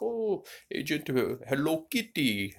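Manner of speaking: high, girlish imitation of a woman; mock high woman's voice; imitating her. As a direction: pitch way up to mimic her. Voicing Agent Meow Meow's reply.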